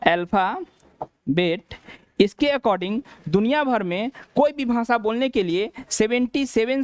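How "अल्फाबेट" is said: अल्फाबेट stretched slowly with a rise at the end; teacher slowly modelling अल्फाबेट; slow, drawn out. Shown as a demonstration. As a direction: drag out अल्फाबेट for students. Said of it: "अल्फाबेट क्या कहा जाता है".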